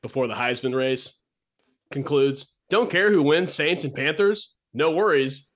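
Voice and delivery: lightly hammed-up ad read; promo read. Host jokingly promoting prediction season to listeners in a mild ad-read voice. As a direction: pitch it like a radio promo.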